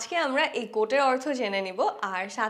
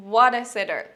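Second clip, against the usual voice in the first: louder, dismayed cry; exasperated fan; 6 dB louder, much slower than usual. Shown as a demonstration. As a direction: despair at the sitter. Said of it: "সহজ একটা গোল যদি miss করে".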